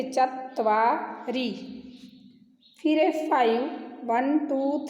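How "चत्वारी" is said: चत्वारी said slowly with त्व joined; slow pronunciation demo. Shown as a demonstration. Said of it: "त व के साथ जुड़ा है, इसलिए". (चत्वारी, त्व जोड़कर धीरे)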